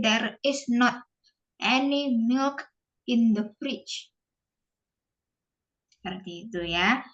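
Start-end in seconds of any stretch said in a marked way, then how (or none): 0.0-4.1 slow model sentence. Shown as a demonstration. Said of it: "you can say".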